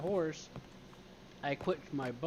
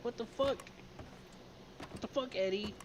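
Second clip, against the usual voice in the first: exasperated outburst; 8 semitones higher than usual. Retold or imitated. Finds Eddie chatting instead of helping.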